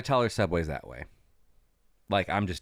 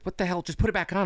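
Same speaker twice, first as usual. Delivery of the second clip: much higher, exasperated mock Julia; 10 semitones higher, faster than usual. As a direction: toss it off like she's fed up. Julia voiced, annoyed.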